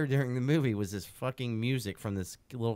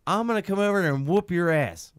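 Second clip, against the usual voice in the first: loud, higher mock yell of an old lady; angry old lady yelling; 6 semitones higher, 8 dB louder than usual. Old lady in the theater yelling at the dad, retold loud and higher. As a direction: shout the threat across the theater. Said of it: "like, screaming".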